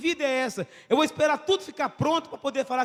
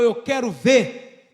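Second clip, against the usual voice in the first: slow pleading; 3 semitones lower, 6 dB louder, much slower than usual. Retold or imitated. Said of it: "Ele falou".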